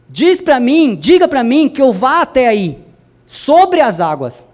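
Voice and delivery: loud, insistent call to Jesus; bold plea. Acted. Peter calls to Jesus on the water, bold insistent plea. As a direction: call out urgently, stretching the last words.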